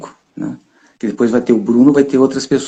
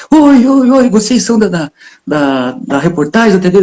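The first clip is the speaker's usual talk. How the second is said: put-on excited kid calling out; 6 semitones higher than usual. Boy in the street flags down the TV crew, calling out high and eager. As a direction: wave them down like an excited boy.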